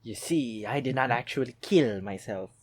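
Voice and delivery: theatrical dictator revealing his secret; mock Hitler explanation. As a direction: play a lightly voiced Hitler confessing. Voicing Hitler explaining his survival.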